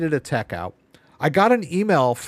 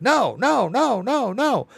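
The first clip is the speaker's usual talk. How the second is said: mock high refusal; 11 semitones higher, slower than usual. Refusing the bot, mocking.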